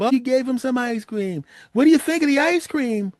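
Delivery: sweetly proud grandmother asking; a sing-song, delighted granny; cheery grandma voice. Retold or imitated.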